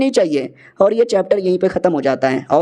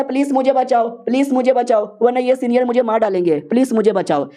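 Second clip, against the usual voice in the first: begging shout; 4 semitones higher than usual. Acted. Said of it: "वो लड़का भी चिल्लाता".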